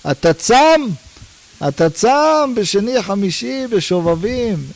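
mock disbelief at a man who fasts yet shouts; incredulous mock. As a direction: sneer at his fasting, disbelieving. Mocking the fasting shouter.

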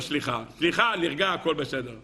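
low, offhand mock apology; perfunctory apology. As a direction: toss off an insincere sorry just to calm things down. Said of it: "ככה אתה אומר". (התנצלות כלאחר יד)

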